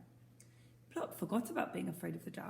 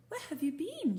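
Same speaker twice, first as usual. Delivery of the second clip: a bit cross; 9 semitones higher, 4 dB louder than usual. Acted. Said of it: "She sounded a bit cross".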